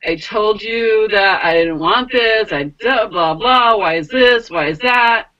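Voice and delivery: mildly heated retold complaint; mock yelling. Woman recalling complaining to the angels, mildly yelling. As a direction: protest with building irritation, short of a real yell. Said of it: "kinda started yelling at the angels".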